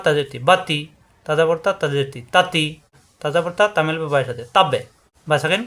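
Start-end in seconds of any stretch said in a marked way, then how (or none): 4.6-4.8 তাব্বে with a bounced, echoing b; short তাব্বে, popping release on the b; qalqalah bounce. Shown as a demonstration. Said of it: "কলকলা".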